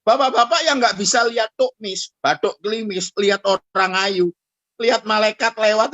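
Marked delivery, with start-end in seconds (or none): none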